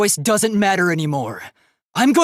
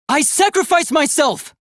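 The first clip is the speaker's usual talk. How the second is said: heroic declaration; 9 semitones higher than usual. Acted. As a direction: declare it like a hero. Offers himself for hope.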